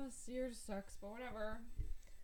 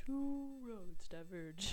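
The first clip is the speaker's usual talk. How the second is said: dramatic poetry recital; much slower than usual. Acted. Quoting Frost dramatically.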